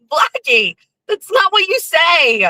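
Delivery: high-pitched, scandalized scolding; mock scolding. Telling Blackie off for joking, mock scolding.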